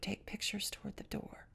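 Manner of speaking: urgent whisper to the friend; a breathy, secretive whisper. Retold or imitated. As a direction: whisper so no one else hears. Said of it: "And I whispered".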